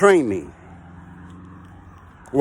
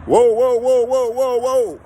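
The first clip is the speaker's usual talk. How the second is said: calling a halt the way the oiler did; imitating the oiler's warning; 8 semitones higher, slower than usual. Oiler warning the crane operator to stop, urgent higher calls. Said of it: "He's telling me".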